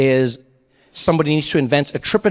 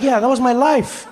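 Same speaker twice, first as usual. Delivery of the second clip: laughing disbelief; 6 semitones higher than usual. Retold or imitated. His laughing reply to friend.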